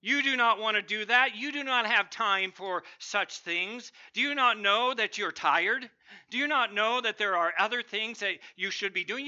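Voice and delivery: a touch of the snarling inner voice; barking dog of evil. Acted. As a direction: bark it out as the dog of evil, scornful. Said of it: "that evil dog barks out".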